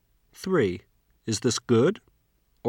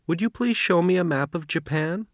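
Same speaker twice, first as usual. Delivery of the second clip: please stressed, rising at the end; polite rising request; 5 semitones higher than usual. Shown as a demonstration. Teacher models a polite request. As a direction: ask politely, lifting toward Japan.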